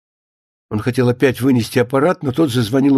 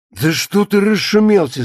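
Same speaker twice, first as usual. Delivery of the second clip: raised pitch, mildly taken aback; unruffled caller brushing off a fuss; 6 semitones higher than usual. A narrator's reading. Baranov to the squealing writer on the phone, mildly dismissive. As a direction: brush off the outburst.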